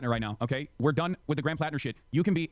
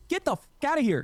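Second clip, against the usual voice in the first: much higher, louder angry yell; furious shout; 11 semitones higher, 4 dB louder than usual. Real, not acted. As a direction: scream him out of the chat. Shouting at chatter.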